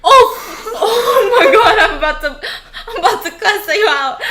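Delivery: loud, laughing indignation; real laughing outburst. Real, not acted. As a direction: protest loudly through real laughter. Startled listener reacts to scary punchline.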